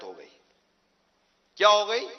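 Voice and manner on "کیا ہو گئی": quiz the listeners. Shown as a demonstration. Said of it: "سزائے موت".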